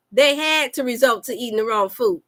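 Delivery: flat, even robotic reading. Shown as a demonstration. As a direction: read it out like a robot. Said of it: "Did I sound like a robot?".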